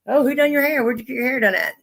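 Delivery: mocking nosy neighbor. Mimicking nosy maintenance lady.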